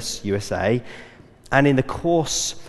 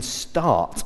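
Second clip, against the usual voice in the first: "start" drawn out slowly and set apart; slow, deliberate weight on "start"; stress on start; 3 dB quieter than usual. Real, not acted. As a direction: lean on "start", stretching the word. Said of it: "I emphasize that word start".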